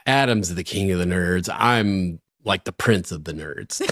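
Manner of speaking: retold glum grumble, falling away; mildly dejected. Friend answering praise after a sigh, mildly dejected. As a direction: concede it with a touch of self-pity.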